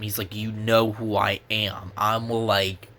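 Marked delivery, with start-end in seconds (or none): 0.3-1.9 slow, menacing hero line; heroic hero voice. Retold or imitated. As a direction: deliver it slowly like Optimus Prime. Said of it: "he glared at them".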